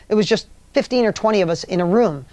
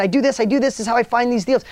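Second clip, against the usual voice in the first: higher, lightly excited Tom; imitating excitement; 4 semitones higher, faster than usual. Coach retells Tom getting excited about deals, lightly excited. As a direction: perk up as the deals come to mind. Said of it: "He got all excited".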